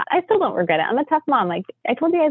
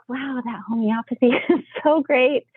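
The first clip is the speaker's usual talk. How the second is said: laughing delight; 5 semitones higher than usual. Retold or imitated. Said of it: "I was just like".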